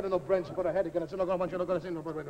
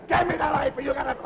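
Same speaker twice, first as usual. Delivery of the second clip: loud, higher bark for the knife; demanding; 4 semitones higher, 5 dB louder than usual. Acted. Chef ordering the boy to hand over the knife, loud. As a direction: snap out the order.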